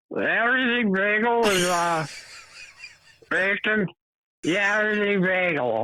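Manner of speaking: strange, weird-sounding talk, very high pitch. Recalling a guy with a very distinct voice, imitating a weird-talking man. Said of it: "He talked kind of just weird".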